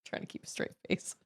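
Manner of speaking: whispered aside to the audience. Real, not acted. Mom hiding her laugh from her upset child, whispered.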